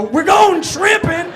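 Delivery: slow, loud, high Southern drawl; mock Southern bullies. Tall kids taunting the short kid, mock Southern drawl. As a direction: stretch it out like a Southern bully. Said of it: "I don't know why they were Southern".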